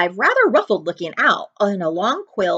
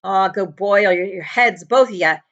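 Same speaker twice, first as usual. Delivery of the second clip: gruff dismissive; 4 dB louder than usual. A narrator's reading. Hagrid dismissive, rough.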